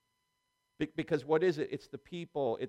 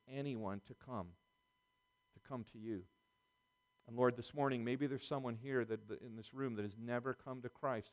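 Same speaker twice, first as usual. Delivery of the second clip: earnest prayer. Acted. Pastor praying for the congregation, earnest and humble. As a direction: pray humbly over the congregation.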